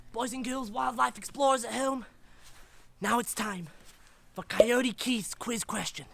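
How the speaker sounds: lightly hammed Australian wildlife presenter; put-on Australian, instructing young explorers; bad Australian accent. Wildlife explorer teaching boys and girls about anacondas, bad Australian accent. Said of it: "his Australian cousin, who's not got a very good Australian accent".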